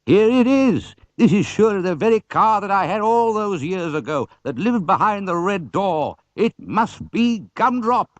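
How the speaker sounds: put-on high, excited old man's voice; a collector finding his long-lost car; eager old man. Mr Oldcastle voiced.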